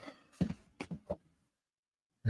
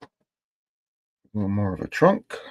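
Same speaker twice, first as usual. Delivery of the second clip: speaking on a held breath; squeezed out while holding breath; slower than usual. Real, not acted. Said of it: "I hold my breath when I do that".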